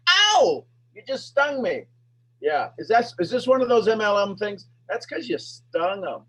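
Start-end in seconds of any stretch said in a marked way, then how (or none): 0.1-1.8 mock ow of pain. Prospect mock stung by question.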